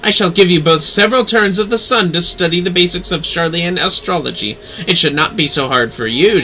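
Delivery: lightly voiced commanding lady. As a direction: lay down the terms with no room to argue. Lady gives orders.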